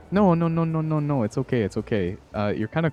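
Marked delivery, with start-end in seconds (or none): 0.1-1.2 high, loud, hurried denial; laughing it off, flustered. Real, not acted.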